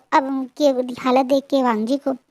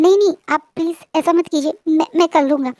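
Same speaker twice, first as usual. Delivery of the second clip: higher, embarrassed protest; flustered, blushing; 4 semitones higher than usual. Acted. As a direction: bashfully wave off the offer. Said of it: "blush करते बोलते". (शर्माते हुए, ऊँची घबराई आवाज़ में)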